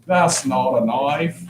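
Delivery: slow mock Australian line, dragged out; a light Crocodile Dundee Australian impression, drawn out slowly; playful Australian movie-hero quote, slow; Australian accent. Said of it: "Flawless Australian accent".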